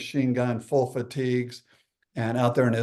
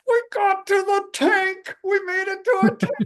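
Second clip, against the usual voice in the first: triumphant cheer; 4 dB louder than usual. Retold or imitated. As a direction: whoop it out in a squealing, slowed-down falsetto. Gleeful shout on reaching tank.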